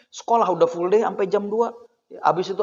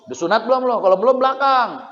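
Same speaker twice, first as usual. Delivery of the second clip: raised-pitch telling-off, climbing toward the order; mock scolding; 4 semitones higher, 3 dB louder, faster than usual. Mosque elder sending a child to the back, mock scolding. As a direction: order the child back with mild acted crossness. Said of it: "Di masjid diomelin".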